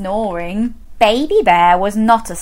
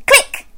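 click; 4 dB louder than usual. Shown as a demonstration. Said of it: "put our fingers on our ears and say".

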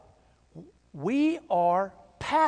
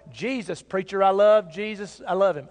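mock churchy sincerity; 5 dB louder than usual. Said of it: "put on our Baptist smile and all say".

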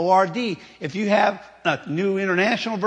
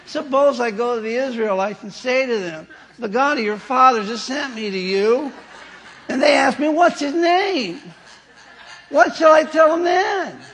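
whining reluctant Moses, pitched higher; whiny voice; 4 semitones higher than usual. Retold or imitated. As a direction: complain like a reluctant leader. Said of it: "in a whiny voice".

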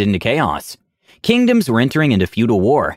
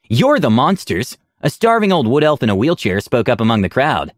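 spat out; 3 semitones higher than usual. Acted. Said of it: "he spat".

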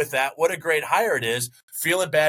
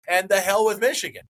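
real annoyance; 6 semitones higher than usual. Real, not acted. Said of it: "and I'm angry".

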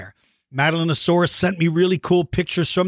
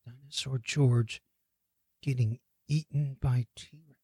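mock disbelief; 4 semitones lower, 11 dB quieter than usual. Host rereading that he gets eaten, hushed disbelief. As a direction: read it haltingly under your voice, as if stunned. Slow stunned rereading of caption.

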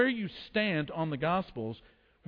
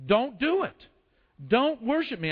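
higher and louder, urgent; urgent warning; 5 semitones higher, 3 dB louder than usual. Acted. Angel urgently stops John falling in worship, raised voice. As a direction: stop him fast, with alarm.

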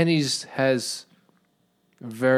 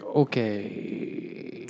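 whispered; 6 dB quieter than usual. Retold or imitated. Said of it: "she's just like".

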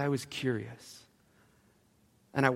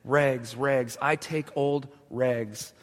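calling out; much slower than usual. Acted. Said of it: "he said again".

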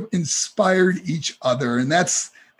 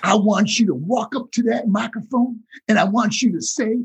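Dusty Rhodes; 2 semitones higher than usual. Retold or imitated. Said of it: "And he goes".

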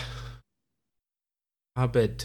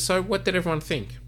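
high bright question as the lady; voicing the lady; 9 semitones higher than usual. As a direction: ask it brightly, well up high. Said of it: "the lady turns around and says".

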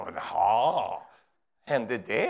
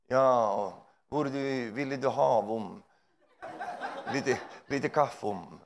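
slow, lightly pious voice; mock churchy coffee offer; 2 semitones lower, much slower than usual. Preacher imagines offering coffee in pious voice. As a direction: offer coffee in stilted holy tone. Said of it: "När vi ska dricka kaffe".

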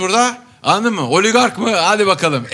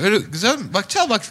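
higher-pitched grumbling uncle; lightly voiced old man; 6 semitones higher than usual. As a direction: imitate an elderly man lightly complaining. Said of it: "diyor ki yaşlı amca". (hafif yaşlı amca taklidi)

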